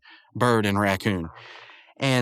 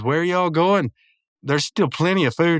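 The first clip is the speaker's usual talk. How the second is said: higher-pitched mock call after people; retold calling out; 6 semitones higher than usual. Muscle Man to departing guests, imitated calling out. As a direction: call them back, lightly acted.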